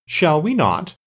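high-pitched, impudent retort. A narrator's reading. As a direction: ask it back with cheeky defiance. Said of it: "asked the king impudently".

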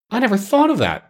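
put-on high-pitched, delighted girl; a child's joyful discovery. A narrator's reading. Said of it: "said Dorothy joyfully".

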